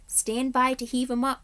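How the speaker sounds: command. A narrator's reading. Captain orders crew.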